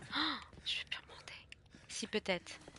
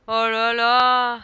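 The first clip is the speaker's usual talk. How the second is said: very slow, loud oh là là; slow loud dismay; 15 dB louder, much slower than usual. Real, not acted. Dismayed exclaim while lost in game.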